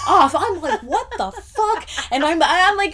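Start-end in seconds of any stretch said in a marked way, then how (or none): 0.8-1.9 laughing disbelief. Retold or imitated. Retold shock at closed gas station.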